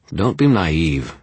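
slow, scornful put-down. Acted. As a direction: drip with contempt. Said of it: "laced with scorn".

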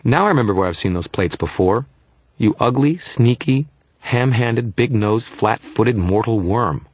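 put-on indignant little fairy, high as a kid; high-pitched, peeved child; Toot's high-pitched voice. A narrator's reading. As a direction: hurl insults in a high childlike voice. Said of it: "His voice was high-pitched, but more like a little kid's".

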